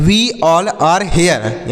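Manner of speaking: very slow, each word separate; slow model sentence. Shown as a demonstration. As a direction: dictate it slowly to the class. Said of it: "ऐसे बोलेंगे". (धीरे-धीरे बोलकर दिखाना)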